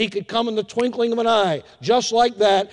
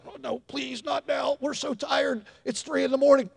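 soft, higher, weary parent's plea; acted desperate half-whisper; hushed pleading; 5 semitones higher, 6 dB quieter than usual. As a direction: beg quietly, as if not to wake the baby.

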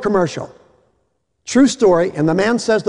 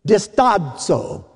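Italian-sounding; 2 semitones higher, much slower than usual. Shown as a demonstration. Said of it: "I sounded like an Italian".

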